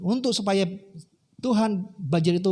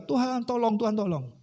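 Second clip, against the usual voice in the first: acted plea; 4 semitones higher than usual. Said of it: "dia terus berdoa".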